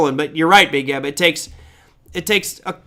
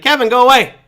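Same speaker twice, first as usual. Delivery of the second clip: louder, higher mock dismissal; mock exasperated retort; 6 semitones higher, 6 dB louder than usual. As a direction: send the pesky caller packing, half-playfully. Mock retort to scam caller.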